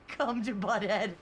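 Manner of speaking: a hint of Butthead; a mild Butthead impression. Streamer reading a chat line in his best Butthead voice. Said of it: "in my best Butthead voice".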